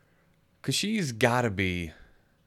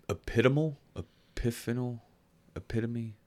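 unsure, higher-pitched questioning guesses; groping for the word; 3 semitones higher than usual. Real, not acted. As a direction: try each word out as a question. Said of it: "I don't know what word I'm trying to find".

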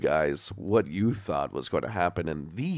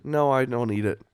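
speaking with a dry mouth; parched, sticky mouth talking; 3 semitones higher than usual. Real, not acted. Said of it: "you can barely speak, 'cause your mouth is so dry".

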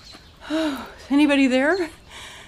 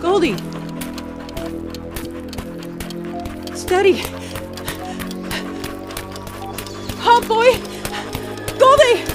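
growing alarm. Acted. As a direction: call the dog, more and more worried. Woman grows alarmed on path.

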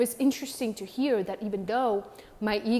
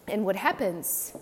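drinking coffee. Real, not acted. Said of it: "sorry guys, I'm drinking my morning coffee".

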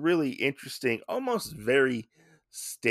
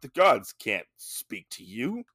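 whispered. Retold or imitated. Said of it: "they're like".

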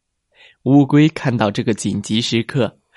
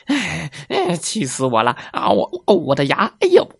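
groaning fox; 4 semitones higher than usual. Acted. Fox's teeth ache from the shell.

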